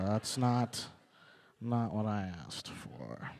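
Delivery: slow, dragged-out complaint; deadpan exasperation. Retold or imitated. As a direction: drag out the frustration. Imitating exasperated user, slowing.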